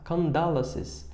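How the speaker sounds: Condolences, slow and soft; slow repetition. Shown as a demonstration. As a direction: say Condolences slowly for the class.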